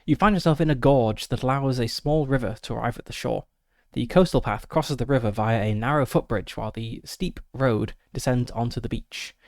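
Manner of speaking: reading the scene aloud; steady scene-setting read; game master narration. Acted. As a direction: set the scene like a storyteller. Reads gamebook scene text.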